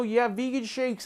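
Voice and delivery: high, slow, soft mock yogi; mocking high-pitched health nut; LA yoga type. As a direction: draw it out like a vegan wellness devotee. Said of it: "especially outside here in L A".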